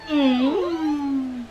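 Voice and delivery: high, loud creature hum; Skeksis voice. Retold or imitated. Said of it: "it's the Skeksis from Dark Crystal".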